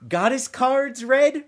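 high, slow Australian fairy offer; Australian accent. Retold or imitated. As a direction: imitate the fairy in stretched-out Australian. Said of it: "she had this Australian accent".

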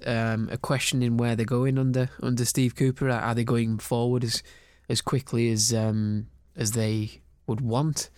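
talking through a blocked nose; stuffy nose from a cold. Real, not acted. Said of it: "sorry for my snotty nose".

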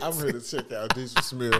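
sassy drag queen voice. Pretend. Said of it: "I'm using my, my drag voice".

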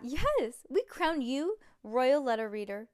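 loud mock-royal decree; royal proclamation. A narrator's reading. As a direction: proclaim it like a crowned head.

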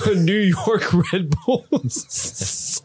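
slow, laughing Boston drawl; Boston accent. Pretend. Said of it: "You got Boston for a second".

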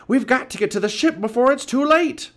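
urgent high, loud cry; Pinky shouting. A narrator's reading. Pirate urging his mates back to the ship, shouting. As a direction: urge the crew to flee at full voice. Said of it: "shouted Pinky".

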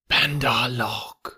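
slow, drawn-out python call; Kaa. A narrator's reading. Python addressing the monkeys, slow and hypnotic. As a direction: summon them in a long hypnotic snake voice. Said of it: "said the voice of Kaa".

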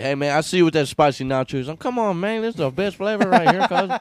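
high, fast street voice; gangster voice. Retold or imitated. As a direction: hype it up like a street homie. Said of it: "he's like".

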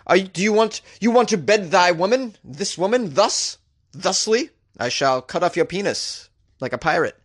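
theatrical mock Shakespeare, lightly voiced; mock Shakespearean. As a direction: ham it up like a bad stage actor. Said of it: "speak like she's in a Shakespearean play".

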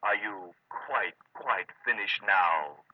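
huffy sarcasm. Acted. Clerk huffy after listening in.

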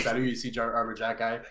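light imitation of the player's French intro; imitating the player. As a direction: mimic his catchphrase, a touch put on. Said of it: "he's just like".

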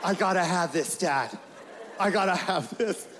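mock kid pleading over and over; hammed-up kid whining for a hoverboard; excited kid begging. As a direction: beg dad, calling him again and again. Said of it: "He was like".

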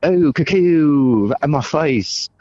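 very high, loud, stretched mock outrage; shrill mock rant. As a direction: squeal the rant like a cartoon bird.

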